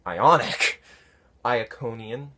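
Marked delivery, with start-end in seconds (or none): 0.1-0.8 surprised. Real, not acted. Puzzled echo of viewer's word.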